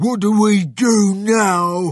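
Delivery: angry tone. Narrator reading a story, voicing the farmer Bunce after a day of digging: angry. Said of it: "Asked Bunce angrily".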